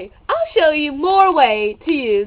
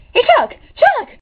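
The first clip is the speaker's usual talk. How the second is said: loud high call across room; 12 semitones higher, 5 dB louder than usual. Real, not acted. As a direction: shout for Chuck. Calling out to Chuck.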